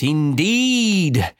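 ordinary delivery

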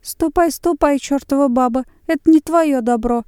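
high, loud angry chasing-off. A narrator's reading. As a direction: drive the woman off. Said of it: "говорил, приближаясь, кум".

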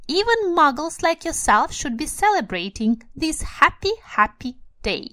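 put-on high, loud squeaky little old man. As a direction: squeak it out with giddy joy. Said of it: "in a squeaky voice".

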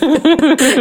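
high nervous giggle; nervous laugh. Real, not acted. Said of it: "Это нервный смех". (нервный смешок)

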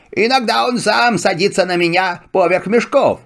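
humble servant donkey. Acted. Donkey speaks. (голос осла)

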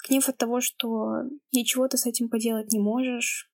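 normal talking voice

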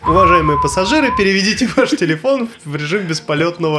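lightly voiced cabin announcement; a hint of an airline announcer; flight attendant. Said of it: "Такой".

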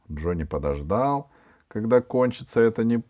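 plain reading voice

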